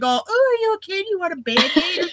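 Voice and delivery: high, fluttery mock fuss. Woman denying she fussed over the hurt man, high mock fuss. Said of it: "It wasn't like I came like".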